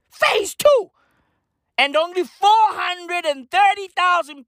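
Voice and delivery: outraged. Acted. Outraged exclamation.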